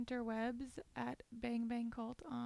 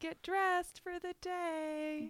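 sing-song mom voice; 7 semitones higher, 3 dB louder, slower than usual. Retold or imitated. Voicing the mother's morning cheer.

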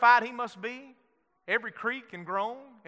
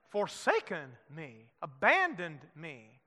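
hushed anguish; 6 semitones lower, 6 dB quieter, slower than usual. Acted. Jesus on the cross, quieter.

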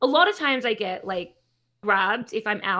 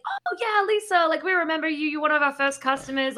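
delighted greeting; 5 semitones higher than usual. Retold or imitated. Shopkeepers greet their returning regular customer, delighted. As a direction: voice shopkeepers recognizing a long-lost regular.

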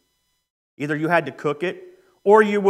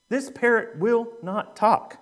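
higher, slow, emphatic complaint; mock fuming; 4 semitones higher, slower than usual. Angry old lady at the pet shop counter, slow and emphatic. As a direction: spell out the grievance word by word. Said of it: "she is hot".

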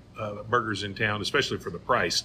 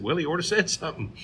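put-on old man deadpan; 7 semitones higher, faster than usual. Old Clarence voiced in joke.

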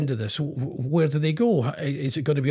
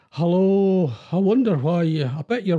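louder, cheery greeting; chirpy perky voice; 3 dB louder than usual. Real, not acted. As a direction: perk right up, overly cheerful. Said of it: "why I sound so chirpy".

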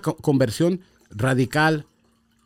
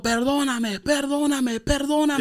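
retold crying plea; 11 semitones higher, 3 dB quieter, slower than usual. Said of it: "Yo como gritando".

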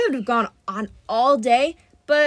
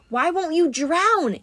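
high, slow, drawn-out wail; frustrated wail; 7 semitones higher, 4 dB louder, slower than usual. A narrator's reading. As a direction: wail it in exasperation, pitch climbing. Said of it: "he wailed".

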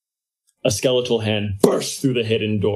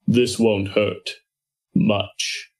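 sinister whisper; much slower than usual. Acted. Menacing lie to captives.

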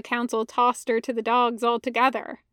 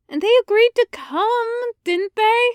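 pointed question; 10 semitones higher, 5 dB louder than usual. Acted. Ahsoka questions Anakin sharply.

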